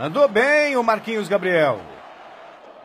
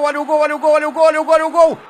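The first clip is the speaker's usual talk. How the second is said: rising, ever louder repeats; building excitement; 3 semitones higher, 5 dB louder, much faster than usual. Real, not acted. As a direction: build from eager to yelling. Repeated rising goal chance call.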